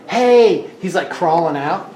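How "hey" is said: pixie. Acted. GM voices tiny creature in shirt.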